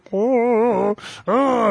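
mock a wasted cartoonish whine; Pee Wee meets Bobcat. Telling a friend how he felt on the trip, squeaky high voice. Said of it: "a mix between Pee Wee Herman and Bobcat Goldthwait".

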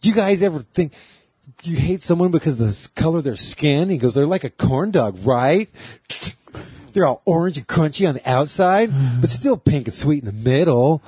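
lightly voiced sassy drag comic; a hint of a sassy drag queen. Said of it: "he's telling it like Roxy".

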